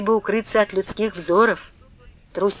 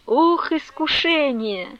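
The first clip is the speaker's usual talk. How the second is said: despairing groan; 6 semitones higher, slower than usual. A narrator's reading. Despairing refrain.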